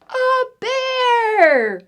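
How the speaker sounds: high, loud shocked cry; startled mom. Acted. Mom turning to face the bear, startled. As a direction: gasp it out as you see it.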